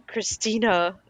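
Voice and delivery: "Christina" said as Okarin says it; imitated anime pronunciation. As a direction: put a character's touch on "Christina". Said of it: "Why you say it like that?".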